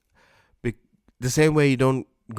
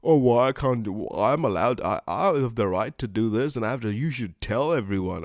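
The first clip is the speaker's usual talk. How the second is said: mock angry complaint. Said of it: "the other person gets angry".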